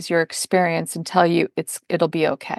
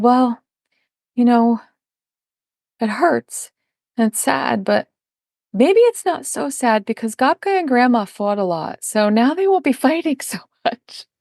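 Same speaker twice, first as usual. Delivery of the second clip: a hint of a child's higher voice; higher, halting, as if working out a consolation; lightly voiced child; 5 semitones higher than usual. Retelling a child's hopeful reply.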